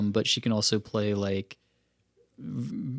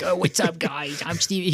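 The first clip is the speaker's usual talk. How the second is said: higher-pitched stupid accent, imitated; Steve Carell; 6 semitones higher, slower than usual. Mocking an actor's movie accent, silly higher voice. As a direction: do a goofy actor's put-on accent. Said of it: "doing the stupid accent that he does".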